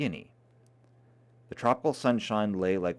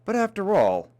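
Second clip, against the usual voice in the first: protesting; 9 semitones higher, 6 dB louder than usual. Acted. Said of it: "Lenina was protesting".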